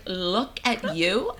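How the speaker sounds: drawn-out, slow "look at you"; retold look-at-you retort. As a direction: stretch it slowly, lifting on YOU. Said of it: "And I'm like".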